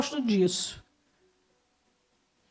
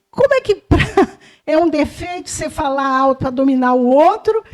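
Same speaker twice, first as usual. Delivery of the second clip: incredulous laughing retort; 3 dB louder than usual. Retold or imitated.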